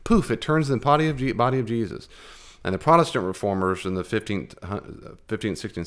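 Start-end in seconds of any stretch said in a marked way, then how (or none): 0.0-2.1 high, louder mock incantation of Hocus pocus; mocking scoffer. Teacher mimicking people mocking the Mass, lightly hammed. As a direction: ham up a scoffing magician's poof. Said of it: "so they would say".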